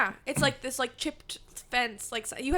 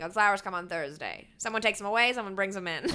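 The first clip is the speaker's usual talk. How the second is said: put-on old-timey voice. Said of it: "I like your old-timey voice you just did for that".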